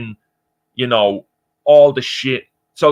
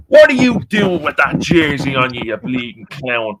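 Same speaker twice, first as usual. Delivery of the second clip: mock taunt at a man in an English jersey; imitating an Irish heckler. Irish local mocking a man in an English jersey, lightly voiced jeer. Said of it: "I'll tell you exactly what they'll say".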